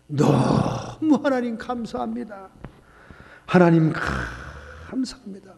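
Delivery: slow, drawn-out earnest prayer voice. Acted. Pastor praying over the injured sister's shop, slow and solemn. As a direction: intone each phrase slowly like a pastor at prayer.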